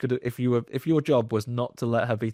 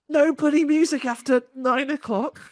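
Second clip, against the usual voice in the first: high, loud mock scolding; landlady telling off; 14 semitones higher, 5 dB louder than usual. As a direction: bark it like a cranky landlady. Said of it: "she gets bollocked by the landlady".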